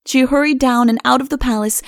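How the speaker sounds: ordinary delivery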